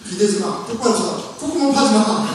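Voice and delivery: terse orders rising in pitch; mock scolding. Parent correcting children in the elevator, mock scolding. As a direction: act out correcting fidgety kids.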